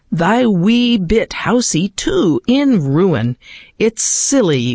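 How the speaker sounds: slow, measured reading of a Scots poem; poem recitation. Acted. Host reads To a Mouse to radio listeners, measured poetic recitation. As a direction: recite it with careful rhythm and feeling.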